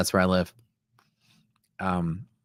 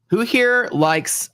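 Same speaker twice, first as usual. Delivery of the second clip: excited; 12 semitones higher, much slower than usual. Real, not acted. Excited chip question.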